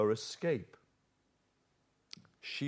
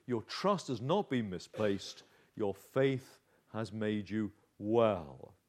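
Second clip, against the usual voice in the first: slow, softer and reassuring; 5 semitones lower, 4 dB quieter than usual. Shown as a demonstration. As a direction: say it gently, as comfort. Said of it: "And so he reassures her".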